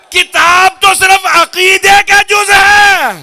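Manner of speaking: loud, high-pitched sermon rebuke; forceful pulpit declaration rising to a climax; full-force preaching. Acted. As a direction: drive it home, building to long shouted endings.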